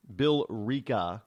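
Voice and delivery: Billrica slowly as bill-REE-ka; drawn-out pronunciation. Shown as a demonstration. Host groping for the town's name, Billrica slowed to bill-REE-ka. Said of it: "Not Billerica or Bill".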